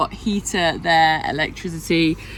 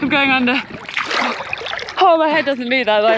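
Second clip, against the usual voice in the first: higher, breathless from the cold; in ice cold water; 5 semitones higher, faster than usual. Real, not acted. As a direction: speak through the cold shock. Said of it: "It's freezing!".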